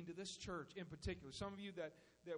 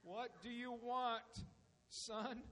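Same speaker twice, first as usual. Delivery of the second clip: weary father; 3 semitones higher, much slower than usual. Acted. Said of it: "that twitch kinda coming in the eye".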